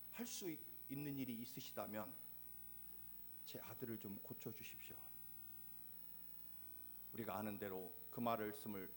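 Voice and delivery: ordinary talk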